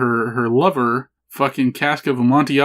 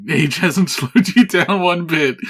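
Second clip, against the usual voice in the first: mock Texan accent; 5 semitones higher than usual. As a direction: ham up a Texan accent through a laugh. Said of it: "He says it in his weird, terrible Texan accent".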